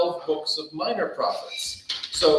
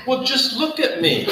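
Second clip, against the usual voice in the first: amused retort; 7 semitones higher, 4 dB louder than usual. Real, not acted. Retelling his reply, amused.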